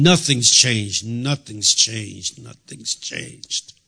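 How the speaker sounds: slow repeats fading to a breath; despairing, fading. Retold or imitated. Preacher reliving his despair, fading to a breath. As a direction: let it die away in despair.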